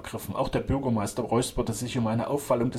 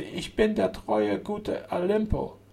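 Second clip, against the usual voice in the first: very slow, mechanical intoning; talking machine voice; 9 semitones higher, much slower than usual. A narrator's reading. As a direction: drone it out like an artificial speaking machine. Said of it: "welche dem Erzeugnis einer künstlichen Sprechmaschine glich".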